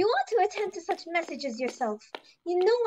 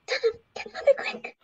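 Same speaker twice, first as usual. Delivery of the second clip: panicked; 8 semitones higher than usual. Acted. Panicked call for help.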